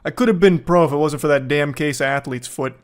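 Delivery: washed-up loser. Retold or imitated. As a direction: brag like a has-been quarterback. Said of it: "some washed up loser who's like".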